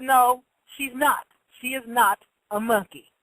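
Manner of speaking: slow, emphatic retold denial; firm correction. Parent correcting the cashier about their daughter, firm and deliberate. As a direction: spell it out slowly and firmly.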